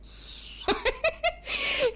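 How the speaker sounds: high, put-on snore; mock sleeping noise. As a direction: imitate someone fast asleep, noisily. Imitates Samuel fast asleep.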